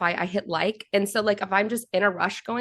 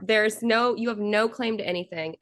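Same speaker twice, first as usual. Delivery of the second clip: indignant scolding; 3 semitones higher than usual. Retold or imitated. Angry retort to drink thrower.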